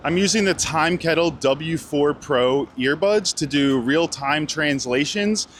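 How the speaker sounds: measured, scripted presenter delivery; sponsor read. Real, not acted. Vlogger introduces translation earbuds sponsor to viewers, ad read. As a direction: smoothly pitch the product to viewers. Host reads sponsor segment.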